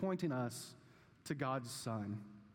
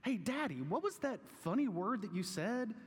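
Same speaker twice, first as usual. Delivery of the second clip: put-on child voice; 4 semitones higher than usual. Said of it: "my children asked me".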